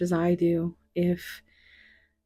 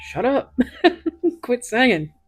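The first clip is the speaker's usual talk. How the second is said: higher, louder teasing scold; mock spirit scolding; 6 semitones higher, 6 dB louder than usual. Spirit scolding her for singing, hammed-up. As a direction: ham up the annoyed spirit. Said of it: "Spirit's like".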